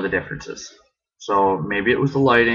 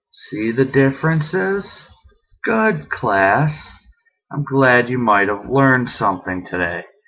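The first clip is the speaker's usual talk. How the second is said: weary, tired, swooping sarcastic tone; 3 semitones higher than usual. Late in the evening, after comparing two lights: being sarcastic. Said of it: "I am being sarcastic because it is getting late".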